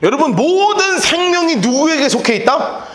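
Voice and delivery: usual speaking voice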